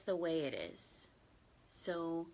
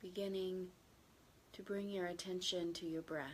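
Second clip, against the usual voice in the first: gentle, even meditation guidance with long silences; unhurried, settled meditation voice; guided meditation; 12 dB quieter than usual. Real, not acted. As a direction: ease listeners into stillness, slightly hushed, leaving long pauses.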